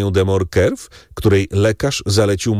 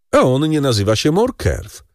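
higher, knowing baron voice; Danglars, sly baron; 7 semitones higher than usual. Acted. Baron hints to the count that Morcerf is false, higher. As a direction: drop the secret with relish.

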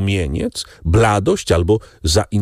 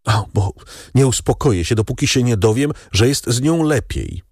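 lightly voiced worried young man; 7 semitones higher than usual. A narrator's reading.

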